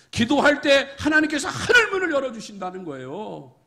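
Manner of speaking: loud, high-pitched pulpit exhortation; forceful preaching. Acted. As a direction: drive the call to repentance home. (힘 있는 설교)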